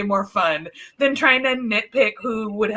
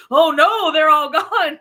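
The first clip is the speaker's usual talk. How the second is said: loud, higher-pitched mock dismay; mock alarm; 6 semitones higher, 9 dB louder, slower than usual. Retelling the last soldier finally looking back, mock alarmed. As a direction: exclaim it in hammed-up alarm, louder and higher.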